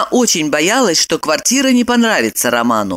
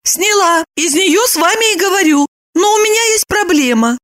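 put-on high young woman; high-pitched woman explaining; Lipochka's voice; 13 semitones higher than usual. A narrator's reading. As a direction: lift up for the heroine.

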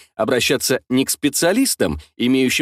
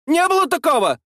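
high woman's voice, stress on было; indignant denial. A narrator's reading. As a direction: deny it hotly, way up high. Woman denies loudly. (возмущённое отрицание)

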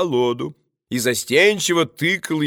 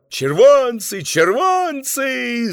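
murmuring crowd; 7 semitones higher, slower than usual. A narrator's reading. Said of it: "загудело в театре".

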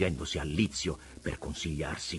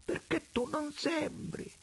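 wheedling rogue, raised and pitched high; vagabond Preola; 5 dB quieter, slower than usual. A narrator's reading. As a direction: preach it like a sly tramp at God. Preola flatters.

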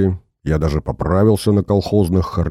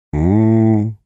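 drawn-out closed-mouth moan; lowing hum; 3 semitones higher than usual. A narrator's reading. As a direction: moan it through closed lips. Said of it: "замычал сыночек". (мычание сквозь сжатые губы)

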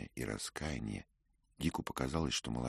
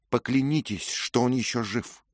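demanding; 11 semitones higher, 9 dB louder than usual. A narrator's reading. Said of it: "потребовала она".

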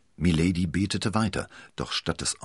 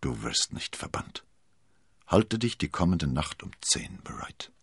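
gentle. Acted. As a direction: hush her tenderly. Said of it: "sagte Felton unendlich sanft".

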